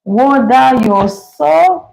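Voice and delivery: Bajan accent, last word pitched high; attempted Bajan accent. Shown as a demonstration. Host tries reading a Bajan phrase, attempted Bajan accent. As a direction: have a go at Bajan, lifting the ending. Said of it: "well, me can't say talk Bajan".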